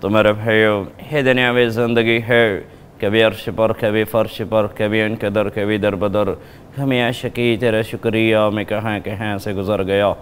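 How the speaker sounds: a hint of a preacher's sermon; lightly voiced preacher blessing; Tariq Jameel impression. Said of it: "मौलाना तारिक जमील साहब की कर सकते हैं?".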